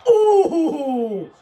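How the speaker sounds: high, loud laughing gasp; laughing ooh. Real, not acted. Near interception, laughing.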